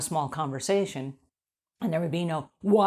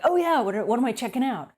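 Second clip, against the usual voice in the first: curious eager reply; 6 semitones higher than usual. Retold or imitated. People answering her casual hey, higher and eager. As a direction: jump in, keen to hear more. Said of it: "And people are like".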